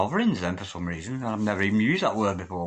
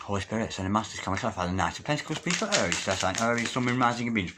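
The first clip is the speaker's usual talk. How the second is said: murmured invocation; faster than usual. Acted. Calls on spirit for clarity.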